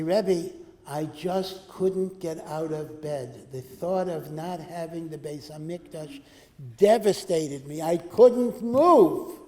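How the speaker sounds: slow, mock-devastated plea swelling to a loud wail; hammed-up excuse. Skipper of Seder excusing himself to the Rebbe, hammed-up slow whine. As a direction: overplay the grief like a lame excuse.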